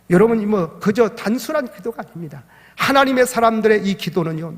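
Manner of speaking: rising, forceful sermon delivery; preaching. Acted. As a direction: preach it, pushing to a climax. Pastor preaching at full force. (힘차게 높아지는 설교 톤)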